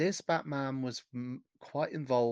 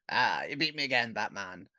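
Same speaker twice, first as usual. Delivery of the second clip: lightly voiced cartoon villain; a hint of a thwarted villain's parting threat; mild mock villain scream. Villain fleeing Batman in a getaway car, mock scream. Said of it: "the villains jump in a getaway car and scream".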